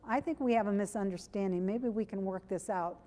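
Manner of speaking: smooth it over kindly; gentle calm delivery. Shown as a demonstration. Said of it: "Doesn't that sound so much better".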